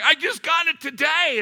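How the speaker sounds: high, loud, strained wail; stunned owner. Retold or imitated. The Porsche owner wailing at the dent, mock despair. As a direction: wail it like the car was your baby. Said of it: "he was stunned".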